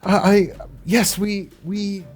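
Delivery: anxious mother on a message; mom's voice. Acted.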